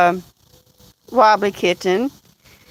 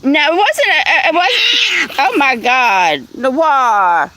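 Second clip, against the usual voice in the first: laughing; slower than usual. Real, not acted. Laughing at viewer's guess.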